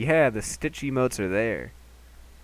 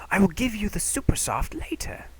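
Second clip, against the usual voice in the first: put-on whispered old man; whispering; 9 semitones higher than usual. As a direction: hush it so nobody wakes. Hushed so shopkeeper won't wake.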